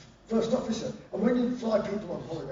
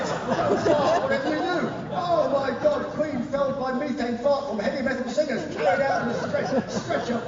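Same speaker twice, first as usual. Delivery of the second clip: higher, frantic inner panic; hammed-up terror of farting before the Queen; panicking singer about to meet the Queen, hammed-up fear; mock panic; 5 semitones higher, 3 dB louder than usual. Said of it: "and you think".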